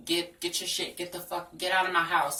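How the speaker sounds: retold angry yelling, building loud; mock furious boyfriend. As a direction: spit out his insults, loud and harsh.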